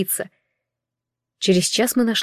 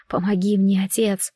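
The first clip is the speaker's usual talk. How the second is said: шёпот молитвы. Acted.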